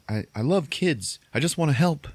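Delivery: lightly acted plea for sympathy; sob story. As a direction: imitate someone begging to keep a job. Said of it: "giving her a sob story".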